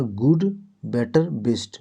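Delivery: slow, drilled गुड, बेटर, बेस्ट with each word set apart; teacher repeating गुड, बेटर, बेस्ट slowly and clearly. Shown as a demonstration. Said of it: "क्या बोले?".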